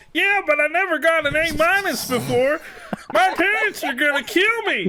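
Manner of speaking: very high, squeaky, nerdy student voice. Voicing Jay in a group reading, asked for a great voice: Jay voice, a nerd. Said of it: "Do a great voice for this one".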